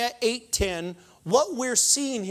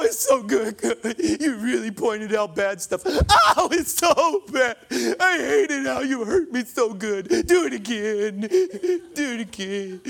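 mock codependent Christian; 2 semitones higher, 4 dB louder than usual. Preacher mocking a codependent believer, hammed-up and swooning. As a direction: overact a Christian who loves being punished. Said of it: "codependent Christian".

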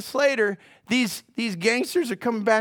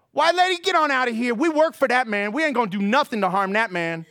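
brushing her off; 2 semitones higher than usual. Retold or imitated. Gangsters sending the scheming white lady away, scoffing.

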